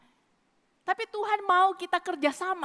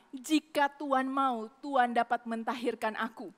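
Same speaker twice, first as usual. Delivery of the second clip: polite plea; 4 semitones lower, 4 dB quieter than usual. Retold or imitated. Leper politely begging the Lord, soft and humble. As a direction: ask gently and humbly. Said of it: "Dia sangat sopan".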